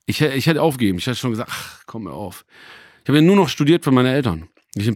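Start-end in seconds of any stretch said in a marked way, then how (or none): 1.5-2.4 very soft, low muttered resignation; resigned. Retold or imitated. Student retelling how he nearly gave up studying, resigned. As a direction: drop the voice right down, giving up. Retells being ready to give up.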